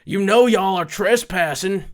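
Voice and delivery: a lightly voiced gruff local catching trespassers; a hint of a suspicious landowner confronting kids; confrontational property owner. Property owner warning teens off his lot, lightly mock stern. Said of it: "and goes".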